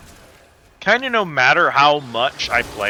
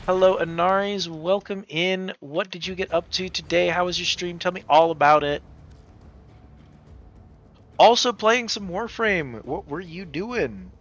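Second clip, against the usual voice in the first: cute anime streamer; 4 semitones higher than usual. Acted. Greeting incoming raid, tea house host.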